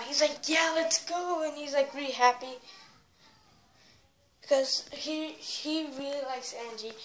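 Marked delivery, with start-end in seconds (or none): 0.5-1.4 mildly excited, imitating a friend; slightly higher, mock-excited cheer; retold excitement. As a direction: quote his happy freak-out with a little lift. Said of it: "he's, like, freaking out".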